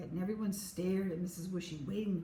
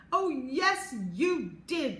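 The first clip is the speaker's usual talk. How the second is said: high, louder whiny insistence; sobbing insistence; 6 semitones higher, 6 dB louder, much slower than usual. A narrator's reading. Chloe insists to Max, high whiny sob. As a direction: push back through tears. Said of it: "Chloe sobbed".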